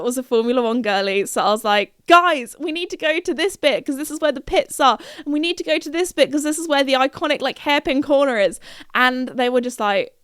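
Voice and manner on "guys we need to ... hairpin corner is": eager, higher-pitched fan pleading; rally your friends like an excited superfan; excited urging. Retold or imitated.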